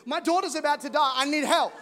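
anxious father interrupting Jesus to beg for help; urgent father. Pretend. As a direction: push him to hurry up. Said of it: "he's like".

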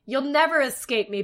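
high, loud storybook witch taunt; gloating witch. A narrator's reading. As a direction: crow it out at fleeing prey. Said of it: "Baba Yaga laughed, a terrible laugh".

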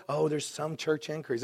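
dismissive. Retold or imitated. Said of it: "this little".

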